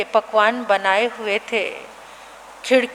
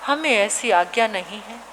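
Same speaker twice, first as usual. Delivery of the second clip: gentle monk; 4 semitones lower, 3 dB quieter than usual. Acted. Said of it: "संत कहने लगे".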